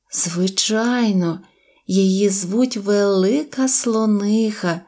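plain reading voice

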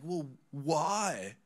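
high, loud mock-innocent question; cheeky kid. Punk kids enjoying making pastor mad, mock-innocent challenge. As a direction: needle him like a cheeky kid.

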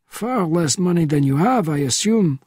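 a hint of a weary old spy at four in the morning; old man roused from sleep, a touch testy; elderly Bernardin, woken. Bernardin dry remark.

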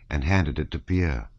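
plain reading voice

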